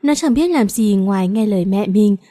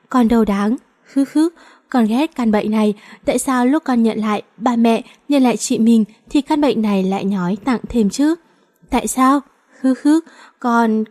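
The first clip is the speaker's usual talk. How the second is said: tearful sobbing plea. Acted. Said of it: "nó sụt sùi".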